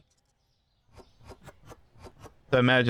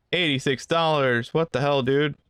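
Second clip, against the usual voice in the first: mock disbelief; 3 semitones higher than usual. Cashier to a customer paying with a big bill, mock disbelief. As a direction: play at being taken aback by the customer.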